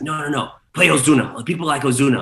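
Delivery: imitating a pushy requester; insistent club guy. Club guy interrupts, demanding a song.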